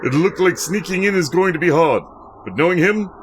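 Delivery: lightly voiced suave secret agent; suave spy. Sakazaki greeting Mister One, a hint of suave agent. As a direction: greet your handler like a smooth spy.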